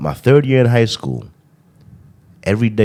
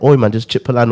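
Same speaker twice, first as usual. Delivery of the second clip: put-on British accent; 3 semitones higher than usual. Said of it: "started to sound as a British man".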